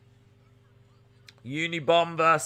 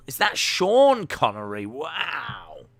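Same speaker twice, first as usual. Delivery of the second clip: imitating awestruck listeners; mock amazement; slower than usual. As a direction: pitch up on the question, then a long falling wow. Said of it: "A lot of people are like".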